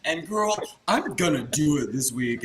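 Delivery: loud, bubbly imitation of Monique; imitating Monique. Telling the judges about her look, lightly imitated. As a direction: brag it like an excited queen. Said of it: "and she's like".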